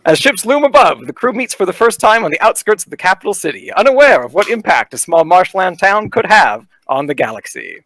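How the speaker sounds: booming carnival barker narration. Acted. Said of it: "I'm gonna put on my best, like, uh, carnival barker voice here".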